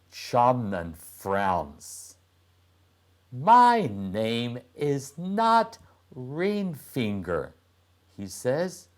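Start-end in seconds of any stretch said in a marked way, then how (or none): 3.3-7.5 put-on boy's voice. Boy objects after frowning.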